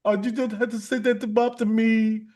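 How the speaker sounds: a light Indian accent mocking a scammer. Mocking a scammer in a light Indian accent. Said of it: "when I do their accent".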